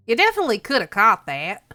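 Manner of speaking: put-on lightly accented dad character voice. Dad teasing about a missed frisbee, put-on character voice. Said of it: "that's your voice now".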